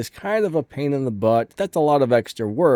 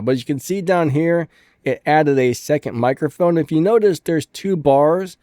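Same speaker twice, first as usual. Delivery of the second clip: doubled echo. Real, not acted. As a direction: voice broadcast twice with echo. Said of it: "this is gonna sound really messed up".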